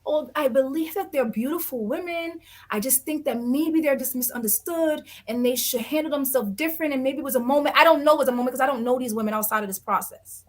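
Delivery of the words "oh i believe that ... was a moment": mock diplomatic. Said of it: "sit here and be like".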